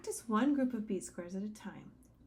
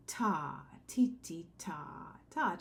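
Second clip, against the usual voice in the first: steady beat; 2 semitones lower, much slower than usual. Shown as a demonstration. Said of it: "say this in a steady beat".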